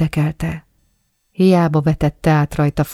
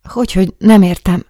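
indignant question; 3 semitones higher, 6 dB louder than usual. Acted.

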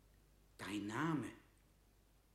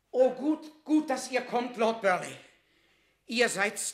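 frantic relief; 7 semitones higher, 9 dB louder than usual. Acted. Relieved appeal to Burleigh.

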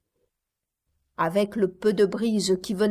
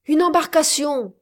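falling, higher, louder cry of discovery; exclamation; 7 semitones higher, 5 dB louder than usual. A narrator's reading. Captain spots the boat through his spyglass, exclaiming. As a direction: announce it as you spot it. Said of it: "s'écria-t-il".

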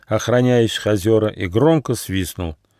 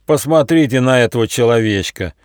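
scornful sneer; 2 semitones higher, 4 dB louder than usual. Acted. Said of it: "презрительно усмехнулся вожак".

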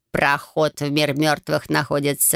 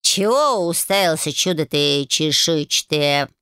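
slow, rough tomcat bark; barking cat; slower than usual. Acted. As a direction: bark at him like a cranky cat. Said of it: "рявкнул на дракона Баюн".

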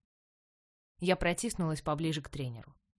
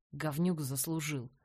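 slow, cool and unbothered; completely calm; 5 semitones lower, 5 dB quieter than usual. A narrator's reading. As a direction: say it like it's nothing. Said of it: "Его голос был совершенно спокойным".

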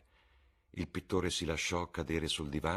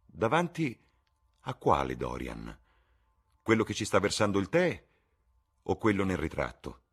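lifted, playful mock question; teasing; 4 semitones higher, 6 dB louder than usual. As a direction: toss the joke off lightly. Lord Henry teasing. (tono canzonatorio e giocoso)

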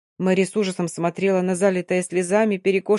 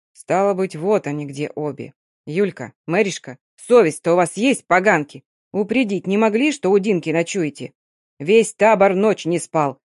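put-on stern old woman. Grandma Nastya scolding the two girls, stern old woman. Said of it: "сурово сказала".

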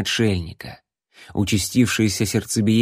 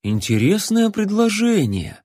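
much higher, drawn musing; mock thoughtful; 10 semitones higher than usual. A narrator's reading. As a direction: pretend to weigh the offer. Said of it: "с притворной задумчивостью произнёс следопыт".

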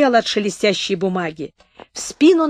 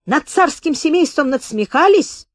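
accusing question; 7 semitones higher, 4 dB louder than usual. A narrator's reading. Question then repeated.

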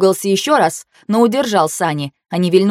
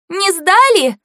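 very high, thin little question; 12 semitones higher, 3 dB louder, slower than usual. A narrator's reading. Fei-Fei reacting to the failed exam, thin high voice. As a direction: squeak it out in a tiny voice. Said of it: "тоненько откликнулась Фэй-Фэй".

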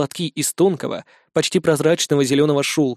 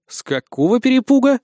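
surprised; 8 semitones higher than usual. A narrator's reading. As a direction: raise it in surprise. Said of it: "удивился я".

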